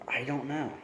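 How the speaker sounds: very soft, barely-there answer; whispered. A narrator's reading. Edward admitting he doesn't know, in a whisper. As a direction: breathe it almost silently. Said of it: "he whispered".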